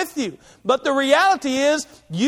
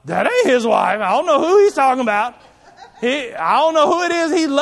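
laughing disbelief; 4 dB louder than usual. Retold or imitated. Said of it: "all y'all who know my wife would be like".

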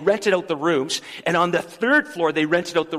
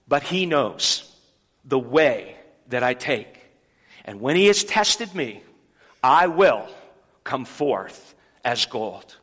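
slow, weighty reading of the verse, each phrase set apart; unhurried pulpit reading with deep pauses; solemn scripture reading; 4 semitones lower, slower than usual. Acted. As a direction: read it slowly like a sacred text. Pastor reads the scripture verse.

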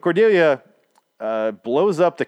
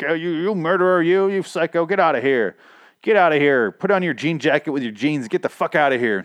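high, loud mock telling-off; imitated scolding; 6 semitones higher, 5 dB louder than usual. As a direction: throw him out as a hammed-up scolding woman. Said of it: "Constance scolds him for being a murderer".

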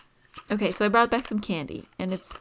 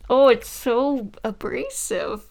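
loud dismayed outburst, slowing down; real disgust; 9 dB louder, much slower than usual. Real, not acted. Taster reacts to salty licorice, disgusted and dismayed. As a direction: recoil from a horrible taste, dragging the words.

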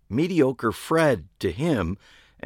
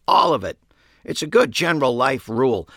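put-on emphatic old woman; 5 semitones higher, 5 dB louder than usual. A narrator's reading. Franny's emphatic voice.

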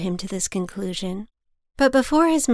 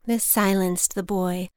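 plain reading voice

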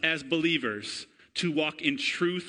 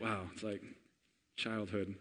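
much softer, lower, dreamy; nostalgic hush; 7 semitones lower, 13 dB quieter than usual. Real, not acted. Pastor sniffing Play-Doh, soft nostalgic murmur. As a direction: breathe it in like a memory.

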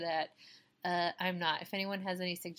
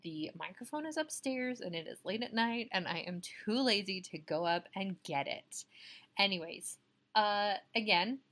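poor distant mic sound; recorded on a bad mic; low quality stream. Real, not acted. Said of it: "apologies for the terrible sound quality".

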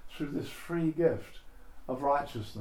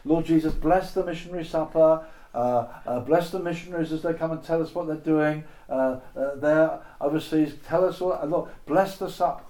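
loud fervent prayer; 5 dB louder than usual. Acted. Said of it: "I'll pretend to be one of the wives here".

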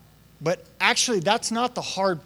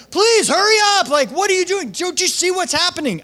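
much higher, louder pleading; emotional plea; 11 semitones higher, 5 dB louder than usual. Retold or imitated. Believer urging God to hurry, high loud plea. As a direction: beg God to hurry, distraught. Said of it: "We get pretty emotional sometimes".

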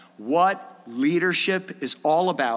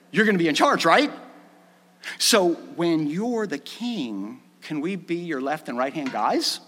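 mock disciples asking favor. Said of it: "So in other words".

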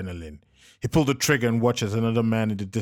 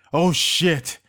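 loud, higher curse; startled exclamation; 6 semitones higher, 5 dB louder than usual. A narrator's reading. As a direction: blurt it as bullets fly. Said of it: "Joseph exclaimed".

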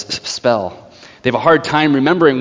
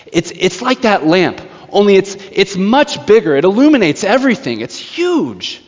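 higher-pitched, imitated eager child; eager explaining; 6 semitones higher than usual. Child describing the sun to the witch, eager and high.

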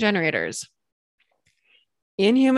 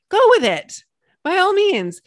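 playful high; 10 semitones higher, 4 dB louder than usual. Real, not acted. Playful permission.

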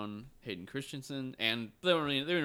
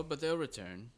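softer, lightly voiced old Jedi; Alec Guinness; 6 dB quieter than usual. Host answering in the old Jedi's voice, soft light impression. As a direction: imitate the old master's quiet warning. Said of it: "Sir Alec McGuinness".

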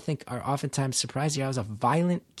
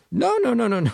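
high, loud pleading no's; frantic no; 10 semitones higher, 6 dB louder than usual. Retold or imitated. Comedian to booing crowd, frantic high loud no. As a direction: stop the crowd, louder and higher. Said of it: "And I'm going".

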